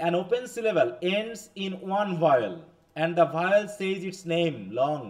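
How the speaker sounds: slow, carefully spaced English read for notes; slow dictation. Shown as a demonstration. Teacher reading the rule aloud to the class, slow dictation. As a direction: spell out the rule slowly so students can write.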